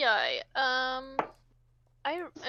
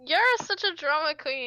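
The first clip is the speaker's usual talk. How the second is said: mocking echo; 3 semitones higher, 6 dB louder than usual. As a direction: throw the insult back in mockery. Throws teammate's jibe back mockingly.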